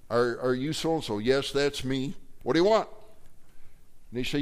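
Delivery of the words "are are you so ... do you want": rescued man annoyed at the door; rude stranger. Retold or imitated. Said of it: "Person says".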